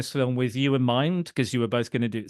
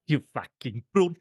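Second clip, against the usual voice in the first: put-on South African accent. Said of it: "quite a few bad South African accents".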